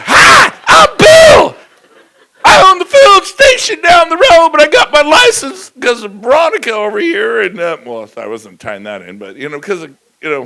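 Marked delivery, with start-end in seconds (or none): 0.0-7.4 goofy husband. Retold or imitated. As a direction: ham up the proud husband, squeaky and loud. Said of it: "Bill is like".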